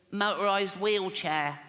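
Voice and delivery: slow, put-on disabled child voice; comic child voice drawn out slowly. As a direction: drag out the words in a strained kid voice. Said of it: "I promised Jane I wouldn't do the voice".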